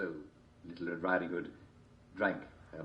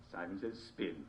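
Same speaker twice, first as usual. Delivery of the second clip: hushed command; 9 dB quieter than usual. Acted. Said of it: "quiet final command".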